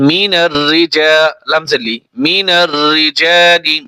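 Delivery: "রিজালি" with a long, held জা; stretched madd. Shown as a demonstration. Teacher drilling learners, "রিজালি" with the জা stretched. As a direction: draw out the জা in "রিজালি". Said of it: "টান হবে এখানে".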